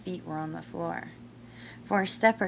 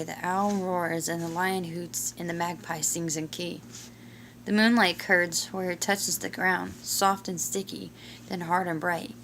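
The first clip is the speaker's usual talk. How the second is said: storybook reading. A narrator's reading. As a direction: read it like a bedtime picture book. Reads picture book aloud.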